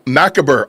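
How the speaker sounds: "macabre" as MACK-uh-burr; mock mispronunciation. Host recalling how Candace said it, mispronounced. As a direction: stress the first syllable of "macabre", three syllables. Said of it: "pronounce it like she was doing".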